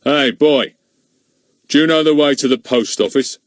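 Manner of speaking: the driver shouts to Ern from the car; shouted from a car. Acted. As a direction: shout back down the lane. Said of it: "shouted back at Ern".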